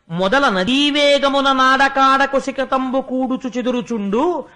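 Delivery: slow, chanted poem delivery; verse recitation. Acted. Sage recites a verse to console the king, chanted. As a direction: intone the padyam with weight.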